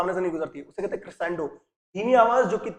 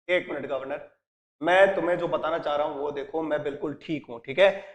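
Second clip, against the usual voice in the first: quiet, strained reassurance from a hurt man; weak injured voice; 4 semitones lower, 5 dB quieter than usual. Retold or imitated. Injured McCleary quietly tells the governor he is fine. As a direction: voice low and softer, pushing through pain.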